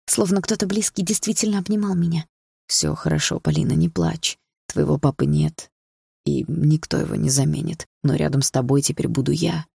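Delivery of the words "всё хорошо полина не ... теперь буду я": quietly comforting. Acted. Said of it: "тихо сказал Дима".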